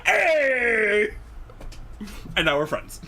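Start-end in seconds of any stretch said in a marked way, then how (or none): 0.1-1.1 higher, louder joking yell; mock shout. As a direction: bark it like a startled foe. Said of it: "And he went".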